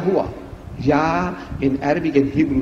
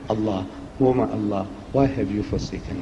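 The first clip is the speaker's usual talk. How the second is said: mild crying; 6 semitones lower, 8 dB quieter than usual. Retold or imitated. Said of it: "Jesus is crying".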